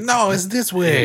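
laughing mock French accent; hammed-up French brownie voice; fake French accent. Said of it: "they have, like, fake French accents".

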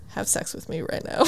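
imitating a seductive near-whisper; sexy voice. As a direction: drop to a soft, seductive murmur. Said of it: "his voice is getting sexier and sexier".

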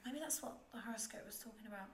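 breathy whispered aside. Real, not acted. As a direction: whisper it to herself.

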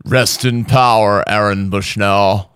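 put-on slow, lightly Spanish-accented quote; imitated accent. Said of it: "That's what he sounds like".

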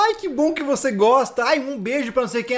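breezy fake-sweet reply, high; high mock politician voice. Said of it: "Aí ela".

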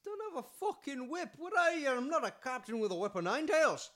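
high, loud protest; hammed-up exasperated retort; mock indignation. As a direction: rant back as if insulted. Mock indignation at whip request.

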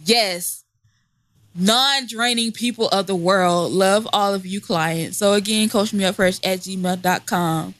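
ad read. Pretend. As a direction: bubbly fake promo pitch. Mock ad read for coaching.

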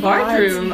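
"Bathroom" loud, with an R put into it; R-heavy bathroom. Retold or imitated. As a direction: play up a mock R in "Bathroom". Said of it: "Everything has an R in it".

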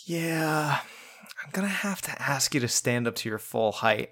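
softly acted, hesitant request; hushed quoted request. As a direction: imitate a movie line under your breath. Quoting the film character's awkward request.

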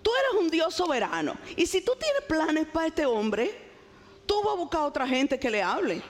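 leve reclamo, algo más agudo; reclamo atrevido a Dios. Retold or imitated. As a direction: discute con Dios con descaro suave. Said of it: "de osada, le digo". (le reclama a Dios con osadía, más agudo)

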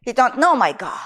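imitated African accent, lightly done; gentle rebuke in a lightly imitated African accent; thick African accent. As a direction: quote her in an African accent. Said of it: "in your thick African accent".

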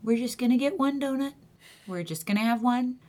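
measured self-coaching pep talk; lightly acted stern talk to yourself; internal monologue. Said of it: "what goes on inside my head".

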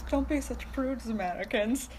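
botched attempt at a Spanish accent; bad Spanish accent. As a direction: put on a Spanish accent that lands like a Bond villain. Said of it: "That was not a Spanish accent".

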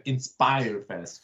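Inspire Fest said slowly in a French accent; drawn out, trying a French accent on Inspire Fest. Shown as a demonstration. Showing the cohost the name with a French accent. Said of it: "You have to say it with a French, French accent".

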